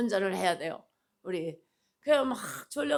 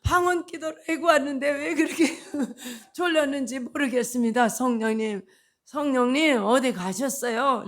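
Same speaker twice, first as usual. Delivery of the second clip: mock crying plea to God; half-laughing lament; 3 semitones higher than usual. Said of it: "교회 와서 울었어". (반쯤 웃으며 우는 하소연)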